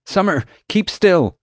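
slow, high, loud command; urgent order. A narrator's reading. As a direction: order someone to freeze, firmly. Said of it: "I ordered".

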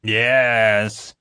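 high, drawn-out tearful wail; blubbering. A narrator's reading. Sobbing prisoner confesses to the officer, blubbering. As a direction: blubber it out, frightened. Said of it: "he was a blubbering, frightened mess".

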